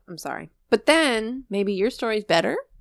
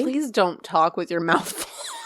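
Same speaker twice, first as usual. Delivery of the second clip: laughing; slower than usual. Real, not acted. Scolding cohost, laughing.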